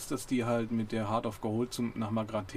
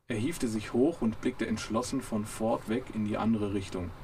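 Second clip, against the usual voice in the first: reading a novel passage aloud; lively audiobook narration with character voices; story reading; slower than usual. A narrator's reading. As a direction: read it like an audiobook chapter. Reads book passage aloud.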